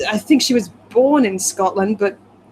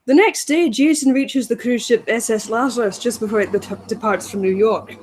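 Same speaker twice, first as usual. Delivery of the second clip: put-on Scottish accent. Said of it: "I don't know what fucking part of Scotland this is".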